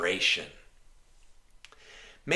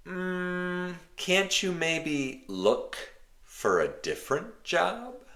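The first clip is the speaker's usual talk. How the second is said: gentle suggestion; 11 semitones higher than usual. Acted. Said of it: "It's a suggestion".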